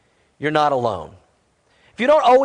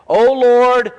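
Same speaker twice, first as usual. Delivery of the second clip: slow, drawn-out plea to God; imitating the psalmist's anguished appeal; crying out; 5 dB louder, much slower than usual. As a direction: cry out with a long, stretched WHY. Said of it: "And he's crying out".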